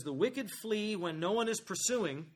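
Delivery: slow verse read while starting to laugh; can't keep a straight face reading it; reading through laughter. Real, not acted. Preacher amused by the verse.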